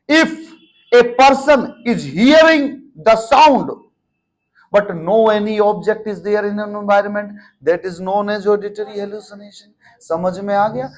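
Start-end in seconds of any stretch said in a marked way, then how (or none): 0.1-9.8 slow English explanation. Shown as a demonstration. Teacher reading an English definition to students, slow and deliberate. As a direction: spell the meaning out carefully. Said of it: "अब जो मैं line बोलूंगा English में वो समझना".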